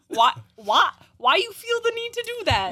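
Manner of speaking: high whiny protest. Real, not acted. Teased by friends, protests.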